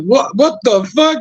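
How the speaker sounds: high startled yelp. Retold or imitated. Finding someone already in the closet, startled. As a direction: jump back in shock. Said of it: "I'm like".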